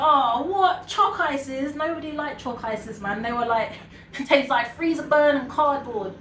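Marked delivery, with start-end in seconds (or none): 0.0-1.8 mock dismay. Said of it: "it was like".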